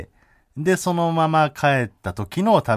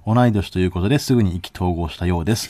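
article read; 3 dB louder than usual. Shown as a demonstration. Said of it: "抜粋した部分読んでいいですか".

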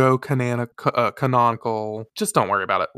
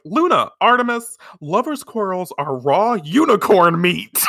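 higher, sassy strutting voice; sassy Minako; 6 semitones higher, 3 dB louder than usual. Retold or imitated. Minako scolding the bickering cats, sassy higher voice. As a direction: strut in and lay down the law.

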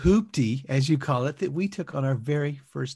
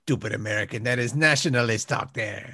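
put-on French accent; 6 semitones lower than usual. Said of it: "stinky Frenchman".

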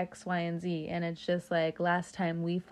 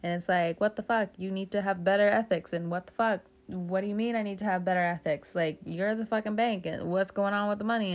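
exasperated rant; 4 dB louder, faster than usual. Real, not acted. Ranting at banks.

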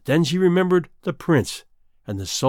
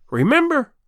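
a hint of a scornful sea witch; mocking witch, lightly done; lightly voiced sea witch; 9 semitones higher, 3 dB louder than usual. A narrator's reading.

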